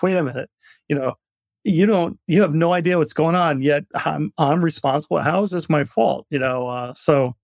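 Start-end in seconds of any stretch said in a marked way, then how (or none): 0.0-6.2 raised, mildly exasperated mock protest; indignant protest. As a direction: object as if wrongly blamed. Acted protest at being blamed.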